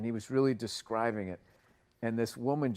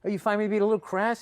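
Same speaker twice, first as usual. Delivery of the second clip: high, loud, fast indignant question; indignant echo; 10 semitones higher, 5 dB louder, faster than usual. Retold or imitated. Offended comic answering a woman in the crowd, indignant. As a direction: throw the word back, offended. Comic throws her word back.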